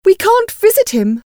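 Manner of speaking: high-pitched cross complaint. A narrator's reading. Wife grumbling at her husband, cross. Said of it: "said Missus Bennet crossly".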